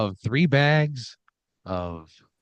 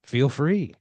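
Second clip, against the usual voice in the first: game show host; 3 semitones higher than usual. Acted. Host offers to keep it.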